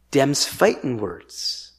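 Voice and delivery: low, slow drawl; folksy warning. Acted. Preacher warning that this is sedition, low slow drawl. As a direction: land it slowly like a challenge.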